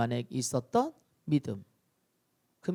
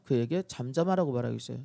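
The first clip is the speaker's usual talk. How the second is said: ordinary delivery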